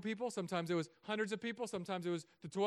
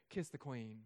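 mock regal toddler; 4 semitones lower, 5 dB quieter, slower than usual. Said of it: "she goes".

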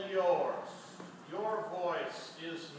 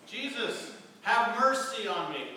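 louder plea, voice pushed up; crying out louder; 4 dB louder than usual. Retold or imitated. Blind man cries out louder over the crowd, pleading. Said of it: "he cries out all the louder".

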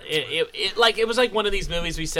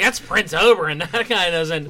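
laughing; 2 semitones higher, 4 dB louder than usual. Real, not acted. Laughing through retold disbelief.

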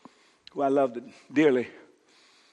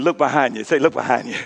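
call-and-response line; 6 dB louder than usual. Shown as a demonstration. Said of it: "Tell the person next to you".

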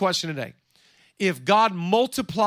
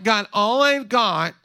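slow complaining whine; slow mock whine to God; whining; slower than usual. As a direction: drag it out like a sulking kid. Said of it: "you ever complain to God".

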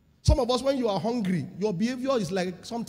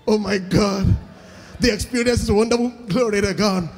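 loud joyful exclamations; excited relief; 8 dB louder than usual. Pretend. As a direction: praise it with delight. Describing relief in restroom.

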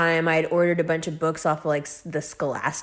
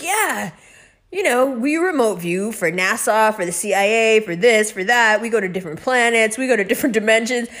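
matter-of-fact; 3 semitones higher, 3 dB louder than usual. Retold or imitated. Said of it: "real matter of fact".

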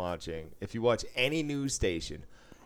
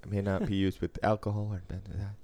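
fast rattled-off medical disclaimer; mock TV drug ad fine print. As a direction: rattle off side effects like a pharma ad. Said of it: "real life ads".

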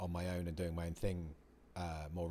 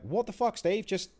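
higher, louder scolding of yourself; mock shouting down your own frustration; berating yourself; 10 semitones higher, 5 dB louder than usual. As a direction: tell yourself off like a mate would. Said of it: "start shouting at myself and berating myself".

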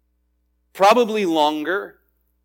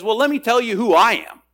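emphatic Gabriel; 4 semitones higher than usual. Acted. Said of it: "very emphatic response by Gabriel".

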